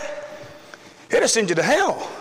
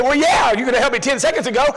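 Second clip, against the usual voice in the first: sarcastic retort; 4 semitones higher than usual. Retold or imitated. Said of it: "I said".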